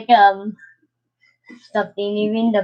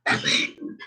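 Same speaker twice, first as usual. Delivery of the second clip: Batman voice; 7 dB quieter than usual. Acted. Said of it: "You are Batman".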